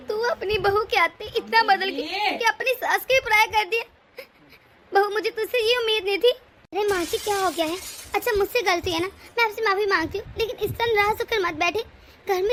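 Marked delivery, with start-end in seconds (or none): 0.1-6.3 sobbing accusation at the daughter-in-law; weeping mother-in-law blaming her; crying reproach. Acted. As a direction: cry it out, voice breaking.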